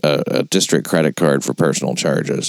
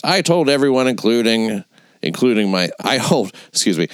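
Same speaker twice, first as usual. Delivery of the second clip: mock pompous statement; 5 semitones higher than usual.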